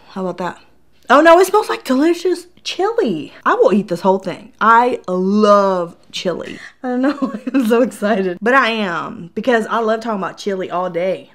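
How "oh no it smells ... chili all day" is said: loud, excited Southern accent slipping out. Real, not acted. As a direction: let a gushing Southern accent come out, loud. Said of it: "even my Southern accent came out".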